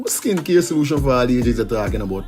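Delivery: playful radio skit between two friends. Acted. Host acting a friend pitching skincare, lightly played. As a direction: act out a street chat selling a product.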